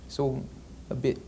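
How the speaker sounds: rough attempt at an English accent; imitated British accent. Shown as a demonstration. Actor shows interviewer the shorter English sounds, imitated British accent. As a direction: slip lightly into British, vowels shorter. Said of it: "and they say long, sort of a".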